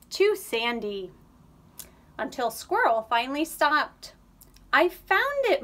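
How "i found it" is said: high, loud triumphant cry; excited. A narrator's reading. Squirrel telling Mole she found the spot, excited. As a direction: announce the discovery with glee.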